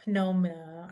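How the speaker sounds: pneumonia with the P pronounced; wrong P sounded. Shown as a demonstration. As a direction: show the error: sound the P in pneumonia. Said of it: "We don't say pneumonia".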